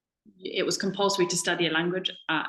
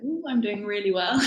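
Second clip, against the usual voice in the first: laughing self-congratulation; 3 semitones higher than usual. Retold or imitated. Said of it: "I was like".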